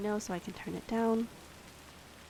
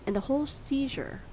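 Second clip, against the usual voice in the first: story narration. Acted. Reading Poe story aloud.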